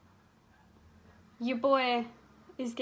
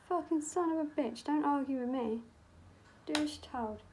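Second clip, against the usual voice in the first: higher-pitched playful telling-off; mock scolding; 3 semitones higher than usual. Makeup artist telling the pigment to behave, mock scolding. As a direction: tell off a disobedient object in mock annoyance.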